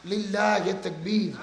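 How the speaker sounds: measured lead-in chant; restrained takbir call. Real, not acted. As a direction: call the slogan with restraint, letting it fall. First call for crowd's takbir.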